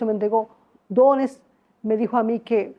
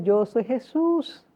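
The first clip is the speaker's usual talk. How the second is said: soft slow Jesus; 4 dB quieter, much slower than usual. Retold or imitated. Jesus says it softly, slowly.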